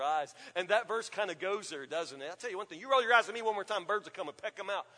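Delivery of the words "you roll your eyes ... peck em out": fast threatening parent rant; hint of a scolding parent, fast; mock scolding parent. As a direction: rattle off a parent's scare threats. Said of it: "Did you ever have that parent".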